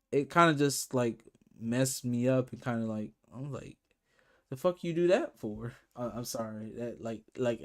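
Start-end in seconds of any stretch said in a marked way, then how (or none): 4.5-5.7 a touch of mock anger, pitch raised; retold angry outburst. Fan ranting at the label over the show, mild mock anger. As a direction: fling the question at them, half-joking fury. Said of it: "that's how angry I".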